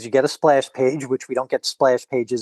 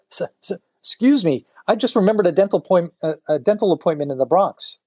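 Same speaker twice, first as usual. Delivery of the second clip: stammering excuse; 4 semitones higher than usual. Retold or imitated. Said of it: "one guy says".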